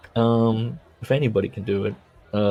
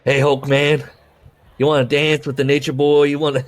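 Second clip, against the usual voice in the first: put-on higher, louder Nature Boy swagger; Ric Flair impression; 4 semitones higher, 5 dB louder than usual. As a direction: strut it like a cocky wrestler. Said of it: "you can't do a Minnesota that well".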